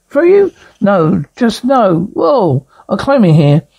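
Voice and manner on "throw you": shocked you'd even ask; squeaky astonished question; incredulous. Acted. Character asked to throw someone.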